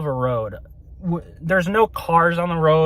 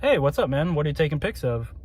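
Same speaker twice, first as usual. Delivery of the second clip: casual, softer friendly question; imitating an easygoing, curious passerby; polite asking; 4 dB quieter, faster than usual. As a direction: ask politely, trailing off softer. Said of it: "people asking politely, like".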